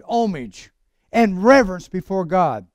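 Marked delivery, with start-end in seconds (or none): 0.0-0.7 HOMAGE back to no h, as "OM-ij"; silent h. Shown as a demonstration. Preacher settling how to say HOMAGE, h left silent. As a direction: settle on HOMAGE starting on the vowel. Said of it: "or homage".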